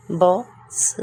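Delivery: बॉक्स said out with a rise; clear model. Shown as a demonstration. Teacher models बॉक्स aloud for students. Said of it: "teacher models word twice".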